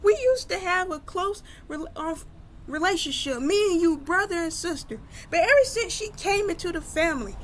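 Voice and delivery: high-pitched, wounded sisterly accusation; tearful complaint. Retold or imitated. Sister in tears feels replaced by Kelsey, tearful complaint. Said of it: "coming down in tears".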